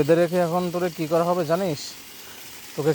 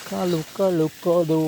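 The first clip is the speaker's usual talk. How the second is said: calling the cow; 3 semitones higher, much slower than usual. Real, not acted. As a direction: call out across the yard.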